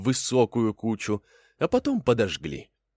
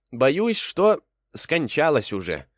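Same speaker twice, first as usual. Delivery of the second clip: mock sorrow; 6 semitones higher, 3 dB louder, slower than usual. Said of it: "отвечает кролик".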